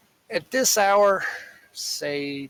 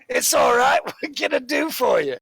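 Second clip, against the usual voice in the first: high, loud barkeep voice; jovial barkeep; 10 semitones higher, 5 dB louder than usual. Acted. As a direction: brush it off and offer service. Barkeep reassures customer, takes order.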